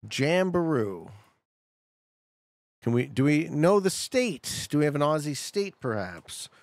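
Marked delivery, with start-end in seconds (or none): 0.1-1.1 "Jamberoo" drawn out slowly, syllable by syllable; slow sounding out. Shown as a demonstration. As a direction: sound out "Jamberoo" slowly, like reading an unfamiliar sign. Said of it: "Okay, so Jamberoo".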